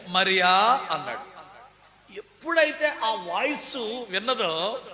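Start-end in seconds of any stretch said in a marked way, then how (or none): 0.1-0.9 "Mariya" called out louder and fuller; "Mariya" called out strongly, not hushed; fuller calling. Retold or imitated. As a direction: call "Mariya" across the garden, louder. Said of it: "ఆ sweet వా".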